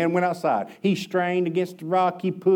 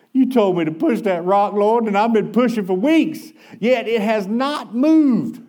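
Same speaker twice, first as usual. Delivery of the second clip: louder pleading to the Lord, slowing at the end; tired worker protesting to the Lord, louder; pleading cry; 4 semitones higher, 4 dB louder than usual. Acted. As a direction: cry out to God in frustration. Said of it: "he cried".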